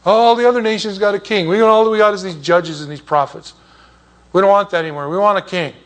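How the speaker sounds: mildly acted petulant demand; complaining people. Nation begging Samuel for a king, mildly acted complaint.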